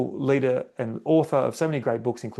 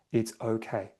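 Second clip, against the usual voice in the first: soft reassuring self-talk; calm it down gently; soothing; 4 semitones lower, 6 dB quieter than usual. Shown as a demonstration. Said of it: "that's a soothing mechanism".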